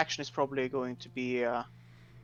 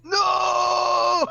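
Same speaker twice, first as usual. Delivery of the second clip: high desperate shout; 9 dB louder than usual. Real, not acted. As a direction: yell it in dismay. Player's character gets hit.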